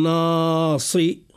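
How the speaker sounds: ناصي said with a heavy nun and the word cut short; wrong clipped form. Shown as a demonstration. Teacher demonstrating the mistaken pronunciation to avoid. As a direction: say ناصي, cutting off the ending. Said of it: "ولا نقول".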